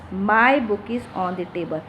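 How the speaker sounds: "My" pressed as the key word; stress on My. Shown as a demonstration. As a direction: lean on "My", let the rest follow. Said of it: "much importance to the word my".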